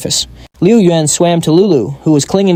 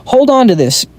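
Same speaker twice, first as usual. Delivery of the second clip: urgent shout; 9 semitones higher than usual. A narrator's reading. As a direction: yell it over the water. Shouting to girl in water.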